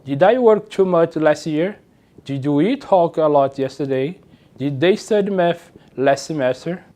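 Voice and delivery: slow English with rising questions; slow model questions. Shown as a demonstration. Teacher reads question examples slowly to class. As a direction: ask them slowly for learners. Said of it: "na sua forma de origem".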